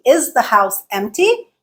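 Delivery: yes-no question rising on EMPTY; rising intonation. Shown as a demonstration. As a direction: let EMPTY climb to the end. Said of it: "This type of intonation is used".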